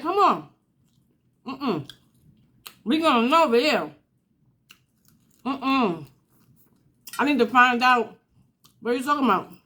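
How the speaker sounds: march over ready for a fight; heated mother. Retold or imitated. Angry mother going to confront the neighbor. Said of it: "I was hot".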